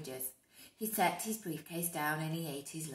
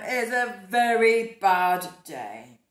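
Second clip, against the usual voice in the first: dismayed; 13 dB louder, slower than usual. Acted. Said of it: "said Mister Brown".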